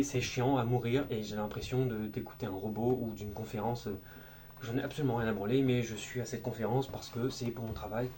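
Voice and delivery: low, dragging, bored; bored monotone. Shown as a demonstration. A bored attendee at a work conference, droning. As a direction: sound like a bored employee. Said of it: "on dirait un robot".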